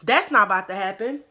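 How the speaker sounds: student squaring up to a classmate, fast and loud; retold heated challenge. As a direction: confront her in a rushed rant. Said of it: "And I'm like".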